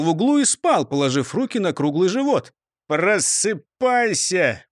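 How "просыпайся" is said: growling. Acted. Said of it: "прорычал брандшеф".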